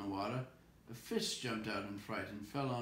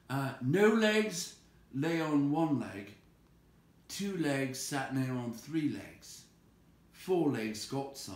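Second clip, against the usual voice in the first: higher, slow, louder riddle; Bilbo's riddle; 5 semitones higher, 6 dB louder, slower than usual. Acted. Bilbo to Gollum, rushing out his riddle. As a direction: call out each clue deliberately.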